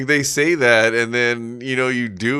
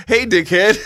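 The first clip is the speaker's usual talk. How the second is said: high, louder squawky parrot voice; 10 semitones higher, 6 dB louder than usual. Retold or imitated. Retelling his cursing parrot greeting a guest, higher parrot squawk. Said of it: "And the bird goes".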